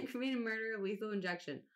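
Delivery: "Aggravated murder" said again through a laugh; retry the phrase while still laughing; laughing redo. Real, not acted. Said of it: "why I said it like that".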